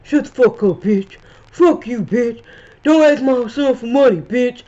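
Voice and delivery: loud, heated cussing-out; mock Pam cussing out. Retelling Pam yelling at her rival, loud and heated. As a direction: bark insults at her rival. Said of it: "I was so here for Pam saying".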